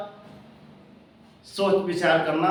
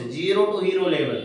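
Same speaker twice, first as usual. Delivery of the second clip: slow slogan; much slower than usual. Shown as a demonstration. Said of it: "slogan read slowly".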